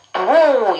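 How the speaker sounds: "through" with lips rounded on the R. Shown as a demonstration. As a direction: round the mouth fully for the R in "through". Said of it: "입을 동그랗게 모아주셔야 돼요". ("through"의 R을 입 동그랗게 모아서)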